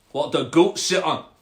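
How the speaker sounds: curious Scottish frog. Acted. Frog quizzing the cat, Scottish accent. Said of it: "a Scottish frog".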